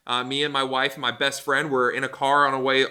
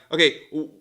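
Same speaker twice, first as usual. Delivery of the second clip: lightly voiced God scolding; 3 semitones higher, 4 dB louder than usual. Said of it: "and he's like".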